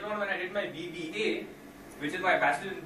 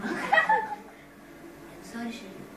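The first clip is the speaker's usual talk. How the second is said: Godfather voice; 3 semitones higher, much slower than usual. Acted. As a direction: turn him down like a weary mafia don. Godfather refusing Skeletor.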